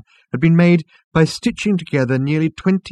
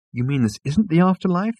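higher, puzzled question; Arthur; 7 semitones higher than usual. A narrator's reading. Arthur asking the waiter, higher questioning voice. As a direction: lift the pitch into a rising query.

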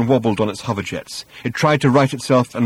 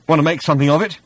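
higher pitched, rising question; timid challenge; 6 semitones higher, 4 dB louder, faster than usual. A narrator's reading. Arthur squaring up to Thor, shakily challenging. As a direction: try a challenge, voice lifting.

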